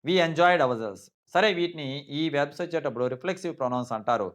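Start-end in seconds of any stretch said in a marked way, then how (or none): 0.0-1.0 "enjoyed ourselves" said slowly and clearly; the correct sentence spelled out slowly; slow correct version. Shown as a demonstration. ("We enjoyed ourselves" నెమ్మదిగా స్పష్టంగా)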